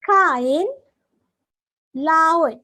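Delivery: "Kain" and "laut", each word spoken apart with a lift; teacher modelling "Kain" and "laut" for students; said syllable by syllable. Shown as a demonstration. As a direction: sound out "Kain" then "laut" for the class. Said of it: "try to pronounce this word".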